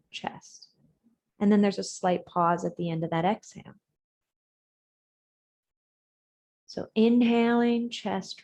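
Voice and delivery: measured cues with space between single words; guided breathing meditation. Real, not acted. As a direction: lead them through each breath and let the last words sink.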